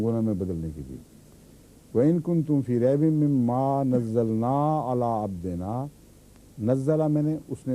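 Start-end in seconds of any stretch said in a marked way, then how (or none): 1.9-5.9 Quran recitation. Acted. Teacher recites the verse to his class in tajweed.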